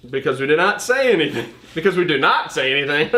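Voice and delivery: reading aloud, cracking up at a stumble; laughing while reading. Real, not acted. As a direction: struggle to read on through giggles.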